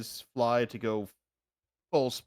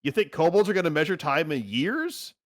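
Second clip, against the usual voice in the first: higher-pitched rising questions; mock incredulity; 4 semitones higher than usual. Kobold answering the baffled party, mildly incredulous. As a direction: lightly scoff at the very idea. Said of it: "The kobold looks back and says".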